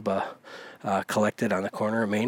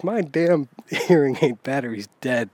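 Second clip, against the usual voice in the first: mock grumbling yell; 4 semitones higher, 6 dB louder than usual. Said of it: "they're talking real loud to one another".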